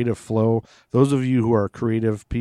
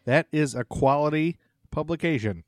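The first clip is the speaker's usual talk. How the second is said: sarcastic; 3 semitones higher than usual. Real, not acted. Mocking the source.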